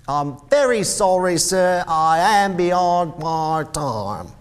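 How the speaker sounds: high, loud, flustered pleading; anxious apology. Acted. Bob Cratchit late before Scrooge, anxious high apology.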